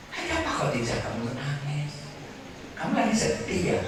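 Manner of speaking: a husband gently asking his weeping wife; Prophet asking gently. Acted. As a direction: ask softly why she weeps. Preacher voices the Prophet comforting.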